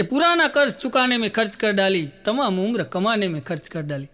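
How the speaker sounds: a measured Urdu couplet read for the crowd; recited poem. Acted. Comedian reciting a Rahat Indori couplet to the audience, measured shayari. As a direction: let each line land like shayari.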